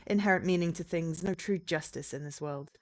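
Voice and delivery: dramatic narration. Acted. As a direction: read it like a dark prologue. Narrates game's opening text.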